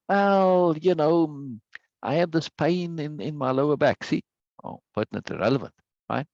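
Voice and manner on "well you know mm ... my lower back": hesitant, drawn-out higher answer, lightly acted; imagined show guest. Imagined guest telling the host about back trouble, lightly acted hesitation. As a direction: lightly play a guest slowly thinking it over. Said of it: "if I had somebody on".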